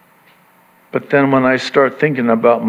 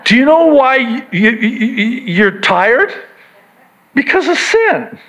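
higher, building intensity; rising preaching fervor; 8 semitones higher than usual. Real, not acted. Pastor pressing congregation, rising excited preaching. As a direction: stammer then land the answer hard.

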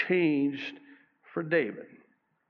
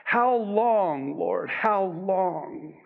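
anguished cry; 5 semitones higher, much slower than usual. Acted. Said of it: "he's asking the Lord".

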